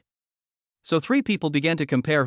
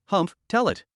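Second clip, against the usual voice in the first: cold snort; 5 semitones higher than usual. Acted. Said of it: "snorted coldly".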